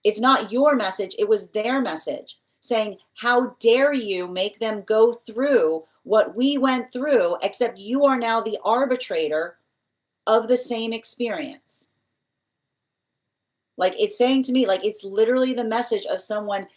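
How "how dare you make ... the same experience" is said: slow, drawn-out reproachful voice; spirit's reproach. Retold or imitated. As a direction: let each word weigh like an accusation from beyond. Spirit scolds through the reader.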